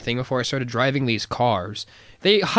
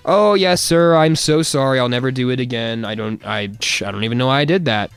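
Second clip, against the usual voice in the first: mock apology; 5 dB louder than usual. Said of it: "didn't wanna start a fight".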